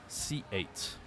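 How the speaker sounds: 1 whispered prompt. Shown as a demonstration. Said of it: "How to say C eight in French?".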